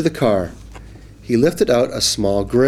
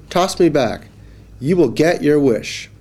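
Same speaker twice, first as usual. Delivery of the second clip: fish voice; 5 semitones higher than usual. Acted. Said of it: "said the fish".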